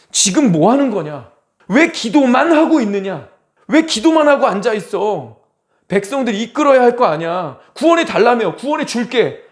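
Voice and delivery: exasperated divine rebuke, pitch rising; imitated stern telling-off; acted scolding. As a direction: scold as an impatient God urging action. God scolds Moses for only praying.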